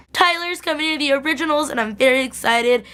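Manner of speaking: high-pitched fan excitement, easing down; very excited. Real, not acted. Fan announcing Tyler's coming to the originals, very excited. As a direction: announce it high, like thrilling news.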